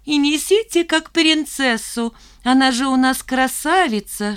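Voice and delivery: high, mocking sing-song; mock her as a princess; mocking glee. A narrator's reading. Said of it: "Шмакова засмеялась".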